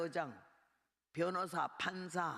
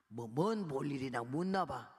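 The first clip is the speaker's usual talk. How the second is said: Korean warden's lower, slow reply; a hint of an unhurried boss; lightly voiced warden; 5 semitones lower than usual. Warden answers guard.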